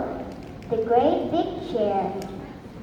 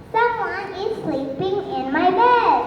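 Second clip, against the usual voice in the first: higher, small squeaky cub voice; 6 semitones higher than usual. Acted. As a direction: squeak it like a tiny bear. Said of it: "in his small, squeaky voice".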